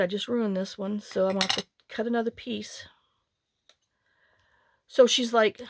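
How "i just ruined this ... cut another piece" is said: whispered aside. Real, not acted. Ruined craft piece, aside.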